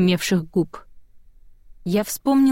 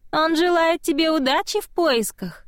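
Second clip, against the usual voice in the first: high, unbothered little voice; high calm childlike spirit voice; calm child voice; 8 semitones higher than usual. A narrator's reading. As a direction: carry on sweetly, untroubled. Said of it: "Голосок невозмутимо продолжал".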